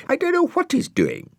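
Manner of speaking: high, chirpy snail voice; a cheery little snail squeaking up; Brian the snail. Acted. Brian telling Dougal they have one cup, high and chirpy.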